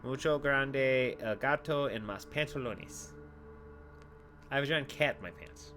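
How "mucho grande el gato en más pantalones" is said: slow, careful gringo Spanish; broken Spanish. Shown as a demonstration. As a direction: recite a memorized broken Spanish sentence slowly. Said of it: "I speak broken Spanish".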